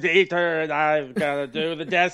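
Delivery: slow, lightly put-on German accent; movie villain german accent. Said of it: "do a German accent".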